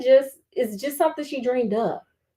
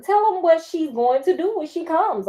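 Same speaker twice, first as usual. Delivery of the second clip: furious demand; 4 semitones higher, 3 dB louder than usual. Acted. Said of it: "I glared at her furiously".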